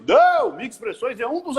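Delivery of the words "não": sudden much higher, louder NO; emphatic correction. Real, not acted. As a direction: cut them off sharply. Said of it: "as pessoas acreditam que".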